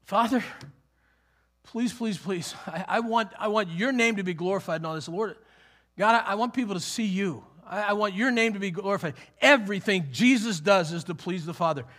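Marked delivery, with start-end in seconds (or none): 0.0-9.1 lightly acted earnest plea; mild pleading. Preacher as Jesus praying to the Father, mildly pleading. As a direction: beg gently, with short halting restarts.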